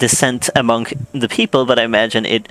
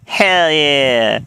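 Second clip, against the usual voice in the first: excited cheer; 3 semitones higher than usual. Real, not acted. Celebrating an achievement.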